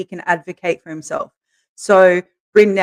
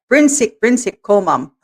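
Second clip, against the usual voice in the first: imitating insistent son; 2 semitones higher than usual. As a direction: insist you are sick.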